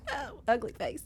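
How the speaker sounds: half-laughing mock ugly cry; playful, teary little whine. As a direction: whimper as if about to cry. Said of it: "I'm gonna be crying".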